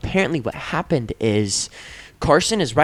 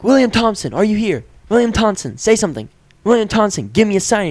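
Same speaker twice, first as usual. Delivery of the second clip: higher, earnest summoning call; calling the ghost; 6 semitones higher than usual. Retold or imitated. Player calling the ghost in the game, a higher earnest call. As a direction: call out to the spirit by name. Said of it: "I'm like".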